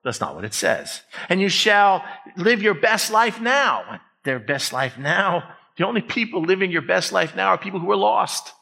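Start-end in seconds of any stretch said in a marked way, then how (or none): 1.3-4.0 raised-pitch fake scripture quote; mock proclamation. Preacher parodying a misquoted verse to congregation, mock proclamation. 4.2-5.6 slow, sceptical repeat; dismissive echo. Real, not acted. Preacher scoffing at the misquote, slow dismissive question.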